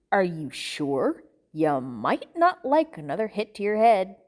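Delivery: veiled threat. Acted. Captor menaces his tied-up captive.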